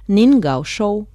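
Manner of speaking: slow careful "Nin gao shou"; Mandarin phrase. Shown as a demonstration.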